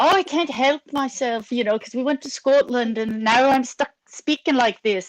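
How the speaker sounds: mock British accent. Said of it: "comes back with a British accent".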